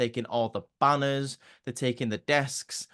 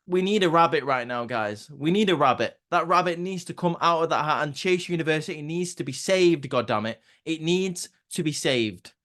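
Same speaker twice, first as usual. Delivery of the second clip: impassioned; 4 semitones higher than usual. Real, not acted. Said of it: "begging for Chase U's rescue".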